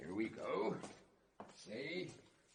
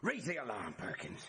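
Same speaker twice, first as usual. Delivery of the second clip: angry bluster; 3 semitones lower, 5 dB louder than usual. Acted. Sergeant rages at escaped prisoner.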